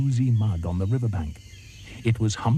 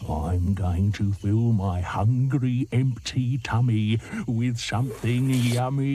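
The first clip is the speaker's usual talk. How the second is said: slow, relishing crocodile; grinning croc; slower than usual. Acted. Grinning crocodile tells the hippo his plan, slow and relishing. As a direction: lick your lips over each word. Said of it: "grinned at Humpy Rumpy and said".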